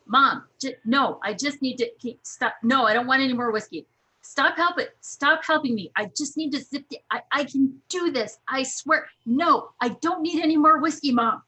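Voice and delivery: put-on a flustered drunk girl fending off mom; hammed-up tipsy protest; drunk protege. Drunk protege retold in tent.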